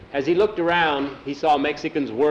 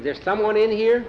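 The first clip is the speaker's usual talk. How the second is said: higher-pitched question, rising at the end; wary questioning; 8 semitones higher than usual. A narrator's reading. Jackie to an unseen sobber, wary questioning. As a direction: call a tentative question into the dark. Boy calls into dark guardhouse.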